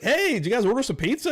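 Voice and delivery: high, singsong call-out; chirpy imitation of a driver hailing customers; delivery driver. Uber driver hailing the group with pizza, high mock call-out.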